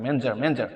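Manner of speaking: "ম্যানেজার" as two syllables, "men-ja"; shortened manager. Shown as a demonstration. Teacher repeats for learners, "ম্যানেজার" shortened to "men-ja". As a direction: drop the middle vowel of "ম্যানেজার". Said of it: "নাই বললেও চলে".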